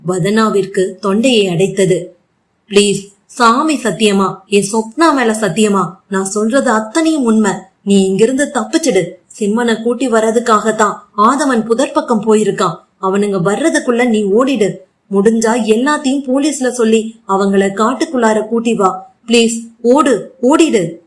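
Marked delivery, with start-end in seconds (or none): 2.7-20.3 a mild, understated tearful plea; lightly acted desperate begging; near-tearful pleading. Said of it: "அழாத குறையாய் Jayant கெஞ்சினான்". 20.4-21.0 urgent, pleading push on ஓடிடு, slightly raised; a last desperate beg on ஓடிடு, near tears; mild acted plea, ஓடிடு pressed out urgently; tearful pleading. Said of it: "அழாத குறையாய் ஜெயந்த் கெஞ்சினான்".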